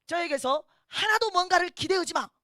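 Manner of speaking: loud, high acted warning; stern command. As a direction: lay down the law forcefully. 꿈속 큰아들에게 단호히 말함. (단호하게 큰 소리로 경고하는 흉내)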